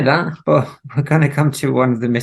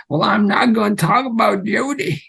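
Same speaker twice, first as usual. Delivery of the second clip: lightly put-on Southern American accent, pitched up; unconvincing Southern accent; 11 semitones higher than usual. Reading a singer's line in a bad Southern accent. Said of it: "An, an accent so unconvincing".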